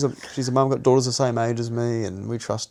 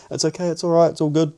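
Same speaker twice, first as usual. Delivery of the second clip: higher, coaxing woman's voice, louder; soothing woman; 6 semitones higher, 4 dB louder than usual. Retold or imitated. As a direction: hush him like a pushy carer. Woman soothing him while drugged.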